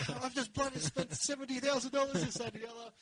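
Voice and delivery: high-pitched imitation of an angry dad; hammed-up ranting, not a full scream; mock screaming rant. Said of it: "screaming and yelling".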